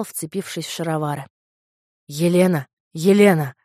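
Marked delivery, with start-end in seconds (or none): 2.1-3.5 loud repeated call of her name; Paris cries out in alarm. A narrator's reading. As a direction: shout for Helen. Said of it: "кричал".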